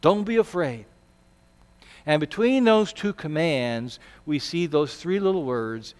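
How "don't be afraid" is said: gentle command. Acted. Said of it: "He says".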